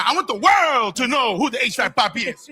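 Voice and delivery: shouting. Real, not acted. Hyping himself up.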